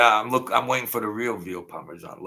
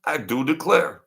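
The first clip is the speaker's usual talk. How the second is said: mock Southern belle; 7 semitones higher, 4 dB louder than usual.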